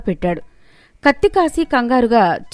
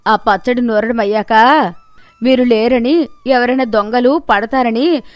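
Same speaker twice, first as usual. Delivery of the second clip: lightly voiced old woman calling out, a touch louder; 6 dB louder than usual. Old woman calling to the thief with a trick. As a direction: call out slyly through the house.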